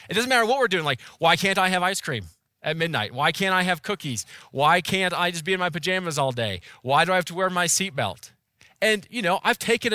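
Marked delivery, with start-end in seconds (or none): 1.2-8.3 mock child whining, louder; whining kid. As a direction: nag like a small kid wanting treats. Kids' whining questions listed.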